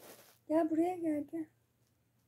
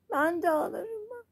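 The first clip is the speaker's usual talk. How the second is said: playful fake sob to the child; mother fakes a little whimper to soothe the crying child; mock crying. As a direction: pretend to cry along, hammed-up. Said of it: "Ben de ağlayacağım şimdi".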